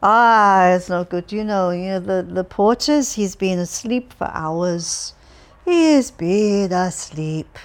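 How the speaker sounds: loud, monotonous chatter; a lightly voiced droning old man. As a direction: keep droning without pause. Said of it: "droned on Elevchukov's voice".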